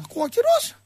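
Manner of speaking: high-pitched put-on Russian-Pontic voice; squeaky, rising Russian-Pontic impression; Russian-Pontic accent. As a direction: caricature a puzzled Russian-Pontic Greek on the line. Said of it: "απ' την άλλη γραμμή ο Ρωσοπόντιος αρχίζει".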